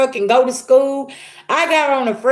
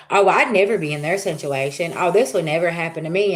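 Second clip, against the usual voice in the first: mocking smug people; 5 semitones lower than usual. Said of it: "they're like".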